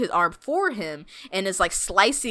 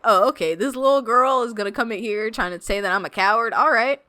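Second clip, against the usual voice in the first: mildly riled, imitated comeback; a little heated; 3 semitones higher than usual. Zapan answering the girl who insulted him, a little heated. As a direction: act out someone taking offence, slightly worked up. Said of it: "He gets a little heated".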